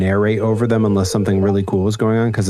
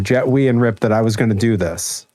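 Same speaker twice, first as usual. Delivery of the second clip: ordinary talk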